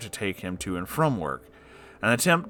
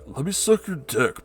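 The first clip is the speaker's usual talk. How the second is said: mock creepy come-on; 6 semitones higher than usual. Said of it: "became regular advances from him".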